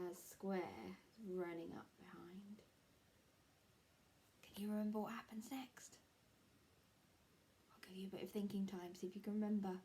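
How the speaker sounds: soft hushed storytelling; whisper. Real, not acted. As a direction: draw them in with a whisper. Teacher whispers to kids.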